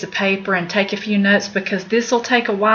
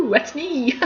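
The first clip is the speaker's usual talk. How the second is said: laughing admission; 5 semitones higher, 4 dB quieter than usual. Real, not acted. Laughs at arachnophobia.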